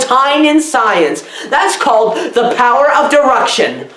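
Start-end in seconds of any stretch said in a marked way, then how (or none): 3.1-3.9 "deduction" garbled as "der-ruction"; mispronounced deduction. Real, not acted. Reviewer naming a clever method, fumbling "deduction" as "der-ruction". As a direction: slur the middle of "deduction" into an r sound. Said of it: "I mean, deduction".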